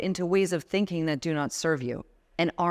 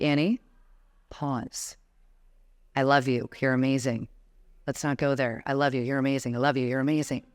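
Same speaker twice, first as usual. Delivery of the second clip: lower, soothing voice telling herself to stop; calming self-talk; 4 semitones lower than usual. Shown as a demonstration. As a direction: gently reassure yourself, lower and unhurried. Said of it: "I'd be like".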